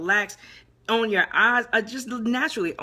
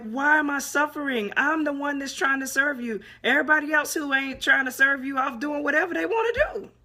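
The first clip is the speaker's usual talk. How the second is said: raised, higher aggrieved complaint; frustrated complaint; 5 semitones higher than usual. Retold or imitated. Complaining to God about unfairness, aggrieved and raised. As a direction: press God with a hurt, indignant why. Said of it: "And I'm like".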